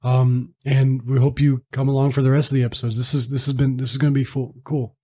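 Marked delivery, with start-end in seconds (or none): 3.0-4.9 tripping over words while stuttering; stuttering and stumbling toward "cool". Real, not acted. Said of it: "I'm stuttering there".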